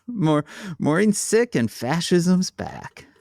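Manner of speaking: laughing. Real, not acted. Laughing at their bad news.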